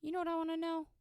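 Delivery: nerdy guy voice. Retold or imitated. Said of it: "Who's the guy who's like".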